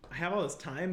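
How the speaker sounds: a touch of worried rising voice; mildly anxious, half-hearted; mock scared. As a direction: lightly act a nervous realisation. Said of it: "it's kinda scary at first".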